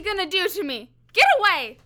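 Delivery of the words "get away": high, loud frightened cry; panicked cry. Acted. Prisoner cries out in fear as the cop grabs him.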